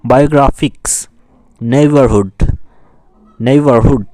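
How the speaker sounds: "বায়োগ্রাফিক্স" and "নেইবারহুড" pronounced forcefully, word by word; stressed syllables. Shown as a demonstration. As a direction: drill "নেইবারহুড" with a stressed syllable, pausing between repeats. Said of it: "এগুলো আমরা জোর দিয়ে পড়ব". ("বায়োগ্রাফিক্স", "নেইবারহুড" জোর দিয়ে)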